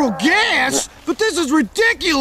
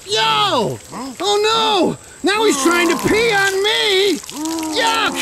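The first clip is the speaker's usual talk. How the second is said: higher-pitched cry of protest; disgusted alarm; 4 semitones higher than usual. Acted. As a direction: exclaim in high, grossed-out alarm. Being peed on, acted.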